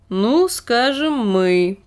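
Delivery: cautious. Acted. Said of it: "осторожный ответ".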